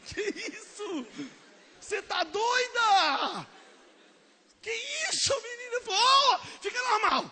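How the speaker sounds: high, loud shocked outburst with laughter; shocked shout. Retold or imitated. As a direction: burst out in scandalised disbelief, laughing. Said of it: "retold girl's reaction". (grito chocado e risonho)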